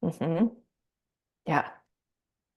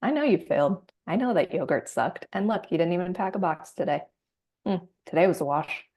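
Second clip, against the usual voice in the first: smug shaming voice; faster than usual. Acted. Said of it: "not the voice that says".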